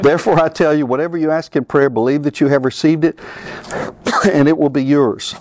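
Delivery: imitating Hagin in a West Texas accent; lightly drawled West Texas accent, Texan preacher. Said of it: "say it with a real West Texas accent, though, to imitate Hagin".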